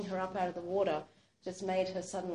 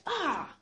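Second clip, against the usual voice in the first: startled yelp; 6 semitones higher than usual. Retold or imitated. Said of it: "like this".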